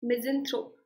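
misanthrope with a strong MIS at the start; stress on first syllable. Shown as a demonstration. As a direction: say misanthrope as a model, hitting MIS. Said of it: "this syllable is strongly stressed". (misanthrope के पहले syllable MIS पर ज़ोर)

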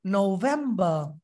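slow নভেম্বর with ভেম leaned on; stress on ভেম. Shown as a demonstration. Teacher models stressed ভেম. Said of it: "ভেমে জোর হবে".

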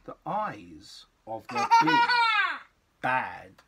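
rising giggling question, high at the end; playful spooky build-up; laughing spooky question. Acted. Reader laughs, dramatic build.

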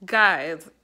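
loud, drawn-out excited call of guys. Real, not acted. Vlogger calling her viewers, thrilled with her teeth, loud excited call.

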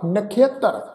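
ਨਖੇਤਰ with an i-a glide after kh; careful demonstration of ਨਖੇਤਰ as nakhiatar; khia glide in ਨਖੇਤਰ. Shown as a demonstration. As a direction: say ਨਖੇਤਰ as na-khi-a-tar. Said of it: "ਇਸ ਸ਼ਬਦ ਦਾ ਉਚਾਰਨ ਕਰਾਂਗੇ".

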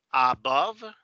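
"Above" sounded out carefully with v ending; demonstrated pronunciation. Shown as a demonstration. Teacher showing class the contrast, careful pronunciation. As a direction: say "Above" as a clear model. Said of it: "Fíjense cómo pronuncio esto".

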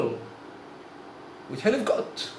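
whispered, slow, almost breathless; hushed and tearful. A narrator's reading. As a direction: drop to a slow whisper as if crying. Beggar thrown out, weeping.

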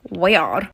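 "Weird" said oddly, low and rising; oddly pronounced word. Real, not acted. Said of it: "I don't know why I said it like that".

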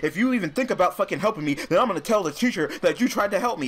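mock him as a whiny, arrogant brat; mocking a rude player. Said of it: "you were like".

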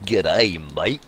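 jokey Australian "G'day, mate"; put-on Aussie accent, played for a laugh; mock Australian accent. Shown as a demonstration. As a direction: imitate a stereotypical Australian greeting. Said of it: "but not like".

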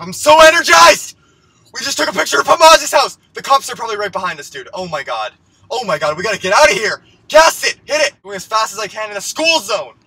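high, loud, excited yelling; thrilled yelling. Acted. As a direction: gush with adrenaline after the stunt. Speeding away in the car.

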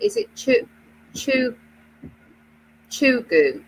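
hesitant "chugu", sounded as CHOO-goo after false starts; unsure pronunciation. Real, not acted. Host guessing at a Japanese-inspired brand name, unsure pronunciation. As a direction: feel out "chu-, chu-, chugu", breaking off and restarting. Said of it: "you pronounce it".

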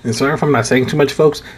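speaking through a sore tooth; toothache. Real, not acted. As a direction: talk carefully around a toothache. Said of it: "I do have a toothache".

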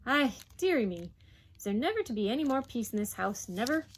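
exasperated mother's lament; weary exasperation. Acted. Mother despairs of peace in the house, exasperated. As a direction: throw it up in despair. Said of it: "sigh of weariness and exasperation".

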